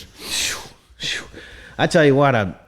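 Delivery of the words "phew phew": soft, unvoiced puff of air; whistling-out breath, "phew, phew"; relieved phew. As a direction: blow out two quiet mock-relief phews. Reacting to imagined popularity with ladies.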